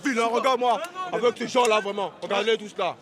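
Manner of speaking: very high, loud yelling; furious shout. Acted. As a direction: scream the insults. Insulting the officer.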